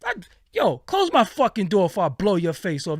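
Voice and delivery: loud threatening shout at the stranger; angry yell. Retold or imitated. Telling a stranger at his car door off, loud and angry. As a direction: bark it like a real threat. Yelling at man opening door.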